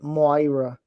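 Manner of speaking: a light Italian accent on "Moira", MOY-ra with a falling end; "Moira" said lightly Italian so the name comes out right. Shown as a demonstration. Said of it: "I have to do an Italian accent to know".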